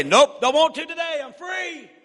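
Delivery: high, loud cheeky dog voice; dog's voice. Retold or imitated. Runaway dog answering its owner, high cheeky refusal. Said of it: "Like it's gonna say".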